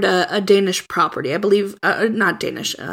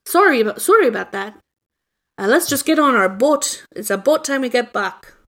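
put-on Canadian accent; 2 semitones higher than usual. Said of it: "My Canadian accent's garbage".

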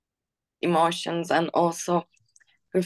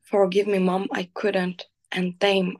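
poem reading. Acted. Reading her own poem about her mother aloud, tender and pained. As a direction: read it like a painful letter to your mother.

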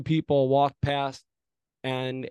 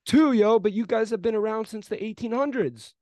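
retold comeback; 8 semitones higher, 4 dB louder than usual. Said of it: "And I said".

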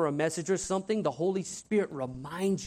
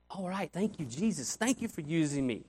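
grateful prayer; 5 dB quieter than usual. Retold or imitated. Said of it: "with, with utmost gratitude".

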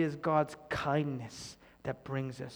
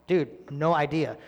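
shrug; 6 dB louder than usual. Retold or imitated. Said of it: "And he's like".

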